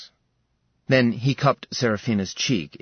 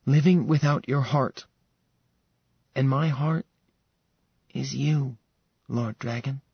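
tender, fading declaration; 3 semitones higher than usual. Acted. Sarah declares love.

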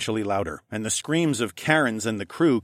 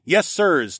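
higher, hearty crew reply; hearty response; 8 semitones higher, 4 dB louder than usual. Acted. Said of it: "our own hearty".

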